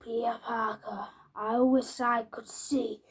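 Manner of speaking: softly whispered name and wish. Acted. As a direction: breathe it like a secret spell. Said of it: "so he says".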